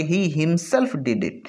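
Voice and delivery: teacher's demo with a light push on himself; stress on himself. Shown as a demonstration. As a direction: lean gently on himself in "he himself did it". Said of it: "थोड़ा सा इसको emphasize करके बोला".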